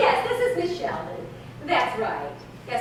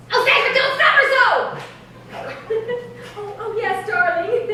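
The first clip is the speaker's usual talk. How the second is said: giggly; 4 semitones higher than usual. Acted. Laughs at stutter on phone.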